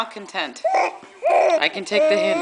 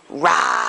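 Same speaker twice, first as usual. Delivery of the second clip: mock bear growl; 8 semitones lower than usual. Shown as a demonstration. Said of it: "Do one for me".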